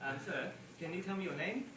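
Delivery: lightly imitated Chinese-accented broken English; a hint of a Chinese comedian's accent. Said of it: "He speaks very poor English".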